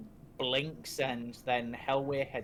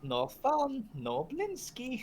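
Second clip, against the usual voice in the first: pull string toy; 11 semitones higher, slower than usual. Acted.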